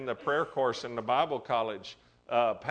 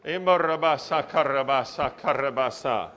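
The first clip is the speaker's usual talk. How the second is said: speaking in tongues. Real, not acted. Preacher praying in tongues.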